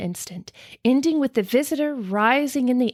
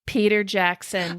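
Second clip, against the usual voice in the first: put-on New Zealand accent. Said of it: "that's a good New Zealand accent".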